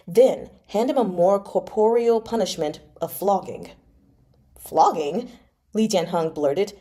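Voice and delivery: even, measured audiobook reading; story narration. A narrator's reading. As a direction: read the novel aloud to listeners. Reads novel aloud between comments.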